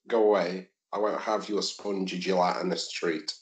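mock prim refusal.

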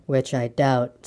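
low, slow, doubting donkey; gloomy. A narrator's reading. Eeyore doubts Pooh's greeting, slow and gloomy. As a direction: draw it out low and dejected. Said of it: "said Eeyore gloomily".

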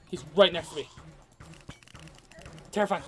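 ordinary talk

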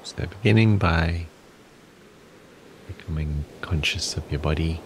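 calm guidance with long pauses between phrases; guided breathing exercise. Acted. Teacher guiding listeners through a body scan, calm and unhurried. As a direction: lead them gently through it, unhurried.

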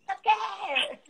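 put-on high yelled child voice; retold child shout. Son shouting a swear word, high and far off. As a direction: belt it out like a boy swearing. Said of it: "E ele gritava".

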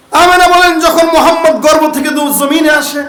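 high-pitched, ringing sermon opening; impassioned preaching. Acted. Preacher begins Amena's account of the birth, high and impassioned. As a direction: launch the story high, easing in volume.

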